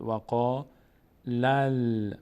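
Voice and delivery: وقا run into لل, final lam held; joined recitation. Shown as a demonstration. Teacher showing how the lam joins, وقا لل linked and held. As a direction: stick وقا onto a drawn-out لل. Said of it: "باید بچسبه به لام".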